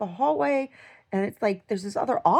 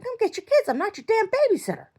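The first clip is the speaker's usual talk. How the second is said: high, louder angry yell; retold scream; 13 semitones higher, 4 dB louder than usual. Dreamer screaming at the mothers, high and loud. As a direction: snap at them to collect their kids. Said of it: "I was screaming at these".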